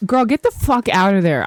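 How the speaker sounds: loud warning shout; yelling at the screen. Real, not acted.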